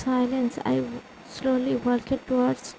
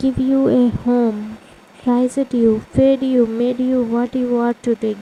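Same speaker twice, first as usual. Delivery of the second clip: loud reproach; 6 dB louder than usual. Acted. Sister lists favors, voice rising.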